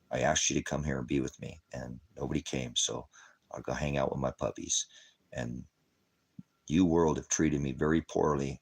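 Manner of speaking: low, soft and hurt, nearly breaking; sad lament. Real, not acted. Man telling the world it broke his heart, sadly and softly. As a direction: speak like a heartbroken man alone.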